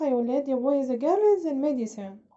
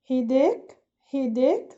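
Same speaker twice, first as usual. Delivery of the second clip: repeat-after-me drill; 4 dB louder, much slower than usual. Shown as a demonstration. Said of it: "repeat after me another time".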